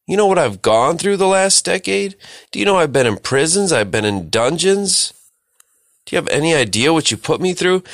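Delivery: mock angry rant. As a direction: pretend the wronged brother telling them off. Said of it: "could have been going off on all of them".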